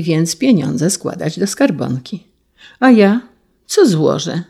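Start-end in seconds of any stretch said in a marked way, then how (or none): 2.8-4.4 put-on little girl asking. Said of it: "zapytała mała Elżunia".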